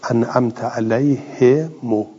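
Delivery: slow "علیه مو" as "alayhe mo", waw dropped; short damma ending. Shown as a demonstration. Teacher demonstrating the reading, slow "علیه مو" ending in "mo". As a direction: draw out "he", then rounded "mo" in "علیه مو". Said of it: "کسر الها و ضم المیم و حذف".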